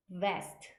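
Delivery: "vest" with the v made by biting the lip. Shown as a demonstration. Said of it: "입술 물어주셔서 발음하셔야 되죠".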